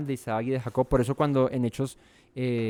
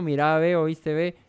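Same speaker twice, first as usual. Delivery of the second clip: put-on Cali accent; 3 semitones higher than usual. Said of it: "el caleño habla caleño".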